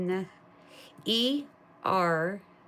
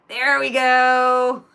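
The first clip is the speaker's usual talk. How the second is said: slow, higher, louder, laughing; laughing through words; 5 semitones higher, 10 dB louder, much slower than usual. Real, not acted. Dog finally looks at the camera, laughing relief. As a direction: let the laugh break through.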